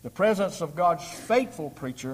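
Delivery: weight the word faithful; the word faithful lifted out of the phrase; stress on faithful. Shown as a demonstration. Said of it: "emphasize the word faithful".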